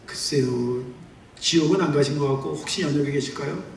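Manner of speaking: a hint of a hesitant son; hesitant uncertain answer. Answering God unsure.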